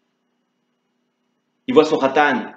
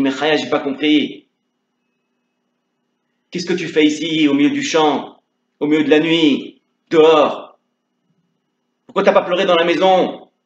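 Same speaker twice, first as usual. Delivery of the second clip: puzzled questioning; 3 semitones higher than usual. Acted. Le rabbin interroge Chaya inquiet.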